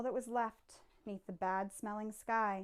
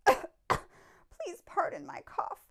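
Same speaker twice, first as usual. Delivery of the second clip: high, slow apologetic creature voice; Lorax voice; 10 semitones higher, 6 dB louder, slower than usual. A narrator's reading. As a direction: beg pardon slowly, high up.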